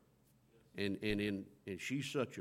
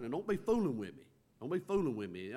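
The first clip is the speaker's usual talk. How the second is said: lightly voiced woman warning him, quick then hushed; a hint of a wary mother saying don't kid me; doubting woman; faster than usual. Preacher voicing the mother to Elisha, lightly wary. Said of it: "she's like".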